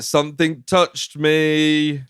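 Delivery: high, drawn-out mock wail; lightly hammed-up crying complaint. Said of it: "then she starts crying".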